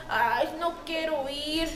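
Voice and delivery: put-on a child told to tidy up, sulky and slow; reluctant child. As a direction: drag it out like a child who won't obey. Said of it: "así".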